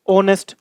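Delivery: ऑनेस्ट starting on the vowel, "onest"; silent h. Shown as a demonstration. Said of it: "क्या बोलते हैं". (ऑनेस्ट बिना "ह" के बोलें)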